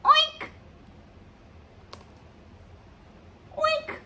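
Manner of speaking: very high, squeaky oink; storybook dog oinking in a tiny high voice; pig oink. A narrator's reading. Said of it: "George went".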